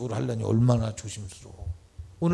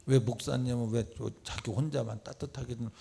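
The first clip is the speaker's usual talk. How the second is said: ordinary talk, nothing marked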